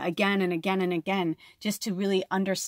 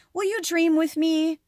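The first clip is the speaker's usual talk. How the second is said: higher, louder mystic lizard voice; lizard spirit speaking; 8 semitones higher, 4 dB louder than usual. Pretend. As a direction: invite them across the stars. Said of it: "So the lizard says".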